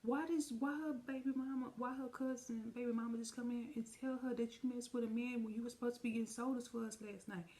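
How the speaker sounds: high, fast accusing rant; the sister confronting her brother, fast and high; angry confrontation. Retold or imitated. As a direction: rip into him. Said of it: "So she was like".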